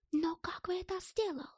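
high, wondering foreigner's question; amazed German character. A narrator's reading. German wonders how Stas got it, amazed high voice.

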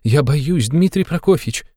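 high, pleading fearful mother; mother admits she fears her son; timid fear. A narrator's reading. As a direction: confess the fear, pitched high. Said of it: "робко взглянув на него".

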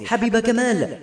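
high-pitched call, held back in volume. A narrator's reading. Narrator as a man hailing a woman he knows, restrained cry. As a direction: call the name in a mild mock shout. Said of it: "صحت باسمها ولم أنتبه لعلو صوتي".

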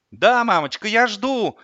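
put-on high, loud little boy; loud child voice. A narrator's reading. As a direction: answer mummy loudly as a small boy. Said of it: "громко раздался голос Славика". (громкий детский голос)

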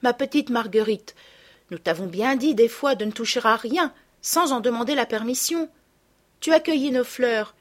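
put-on patient older girl explaining the harm done; gentle reproach. Madeleine gently tells her little sister she spoiled mum's gift, lightly voiced.

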